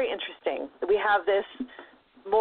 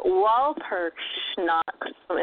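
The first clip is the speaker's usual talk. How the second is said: slow, mock German pronunciation of Walpurgisnacht; German accent; much slower than usual. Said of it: "in my very professional German accent".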